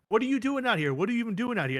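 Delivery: mock Bianca. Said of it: "gets on the mic and goes to Rhea".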